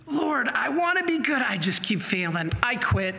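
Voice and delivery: discouraged plea, starting high and sinking; mock despair. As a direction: act out giving up on yourself. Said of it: "get discouraged and we despair".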